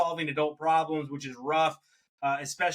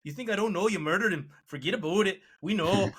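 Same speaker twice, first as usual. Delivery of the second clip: mock Canadian tough-cop accent, a bit higher and quick; 3 semitones higher than usual. Podcaster mocking Canadian cops in an interrogation, mock Canadian accent. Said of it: "and with that accent".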